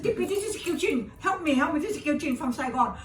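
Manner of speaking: high, loud desperate pleading; crying plea. Retold or imitated. A refugee on a long-distance call, begging the actress for help, high and loud. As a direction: beg for help through tears. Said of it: "And I was crying like mad".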